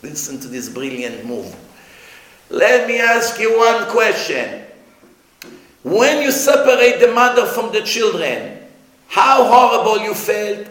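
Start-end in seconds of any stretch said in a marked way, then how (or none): 2.5-10.6 raised, measured courtroom questioning; acted stern questioning. Hashem questioning a soul at trial, acted stern voice. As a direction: question weightily, as a judge would.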